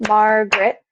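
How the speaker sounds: Margaret in two measured beats, Mar-garet; syllable by syllable. Shown as a demonstration. Teacher checking a nickname's full form, Margaret beat by beat. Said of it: "clapping out the beats".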